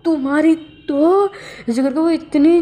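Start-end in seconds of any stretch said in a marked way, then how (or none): 0.1-1.3 drawn-out, higher mock shout; slow stretched angry yell at Wencha. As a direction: yell it slowly in fury. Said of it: "इतने ज़ोर से चिल्लाता है".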